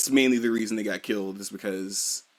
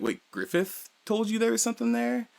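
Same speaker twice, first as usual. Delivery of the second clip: much higher, imitating a startled double take; surprised; 11 semitones higher, 4 dB quieter than usual. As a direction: catch him off guard with the news. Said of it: "even Guts is kinda surprised".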